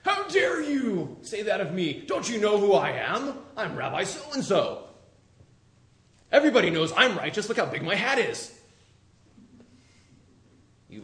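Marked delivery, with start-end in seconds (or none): 0.1-8.6 hammed-up pompous rabbi, higher and louder; mock indignant Pharisee. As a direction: puff up like an offended big-shot rabbi. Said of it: "they got angry".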